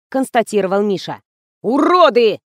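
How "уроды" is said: loud furious outburst, stamping; furious shout. A narrator's reading. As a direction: explode at the whole crew. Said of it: "затопал режиссёр". (в ярости, криком)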